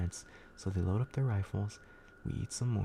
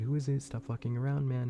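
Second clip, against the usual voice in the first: higher, louder shout through the door; yelling outside; 4 semitones higher, 4 dB louder than usual. Retold or imitated. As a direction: call out at the stranger outside. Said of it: "we keep yelling outside".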